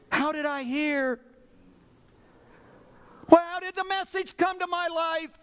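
high, crying-out questions to God; pleading pulpit cry; impassioned preaching. Real, not acted. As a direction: lift the voice way up in fervent wonder.

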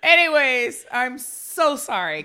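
talking through laughter; laughing. Real, not acted. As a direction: still cracking up. After big laugh, still laughing.

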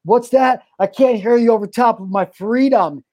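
mock shout. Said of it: "being like".

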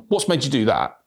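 a flat, accusing question; blunt probing tone. Shown as a demonstration. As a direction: ask it so it puts them on the defensive. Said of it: "in that tone".

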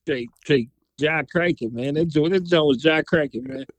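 put-on DC accent, DC slang. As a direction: talk like a guy from DC. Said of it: "I'm trying to get my D C accent".

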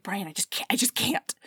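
hushed, unvoiced mock plea; whispered reluctance. She refuses to tell her best friend, whispered plea. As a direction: whisper it as if too mortified to talk.

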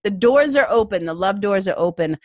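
loud, laughing welcome; laughing excitement. Retold or imitated. Inviting new clients to talk, loud and laughing. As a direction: throw the doors open with a laugh. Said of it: "I'm like".

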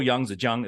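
"Yangtze Jiang" as Yahng-dzuh Jyahng; correct Chinese pronunciation. Shown as a demonstration. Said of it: "is how you say it".

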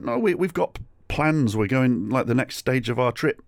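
mildly flustered protest; mock protest. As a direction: plead your case in a retold argument. Retold pleading with the stallholder.

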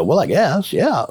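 amused concession tipping over into a laugh; laughing reply. Retold or imitated. Husband recalls answering her about booked flights, laughing as he says it. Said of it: "we laughed".

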